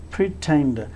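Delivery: "pretend" with a puff of air on the t; aspirated t. Shown as a demonstration. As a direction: release air on the t that starts the second syllable of "pretend". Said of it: "again pronounced with a puff of air".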